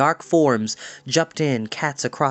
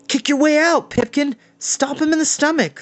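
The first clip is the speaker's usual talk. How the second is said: much higher, louder call; yelling encouragement; 13 semitones higher, 3 dB louder than usual. A narrator's reading. A boy shouting to Pipkin inside the cloud, high and loud. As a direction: shout up to the cloud urging him on.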